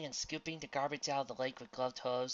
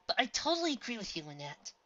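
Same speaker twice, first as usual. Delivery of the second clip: character voice; 10 semitones higher, 4 dB louder than usual. A narrator's reading. Second filly voice.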